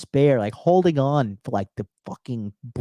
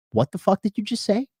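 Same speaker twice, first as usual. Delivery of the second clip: stunned disbelief; 9 semitones higher than usual. Retold or imitated. Retelling shock at a friend.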